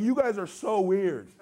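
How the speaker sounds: drawn-out mock disbelief; uncomfortable, weirded out. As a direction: stretch it out as if put off by them.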